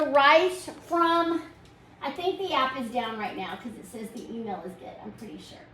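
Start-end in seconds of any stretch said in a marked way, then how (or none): 2.0-5.7 quiet aside. Real, not acted. Aside about the app, off-mic.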